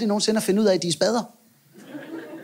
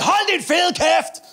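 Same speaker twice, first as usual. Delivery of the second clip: angry biker shout; 10 semitones higher, much slower than usual. Retold or imitated. Biker slams his head, shouts.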